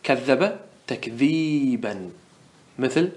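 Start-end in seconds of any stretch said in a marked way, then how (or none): 0.0-2.1 slow demonstration. Shown as a demonstration. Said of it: "مفروض إيش نقول في مصدره".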